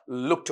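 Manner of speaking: लुक्ड ending in a "t" sound; correct voiceless ending. Shown as a demonstration. Teacher summing up the sounds, लुक्ड with final "t". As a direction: say लुक्ड as "lukt". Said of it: "आपका टे sound रहा".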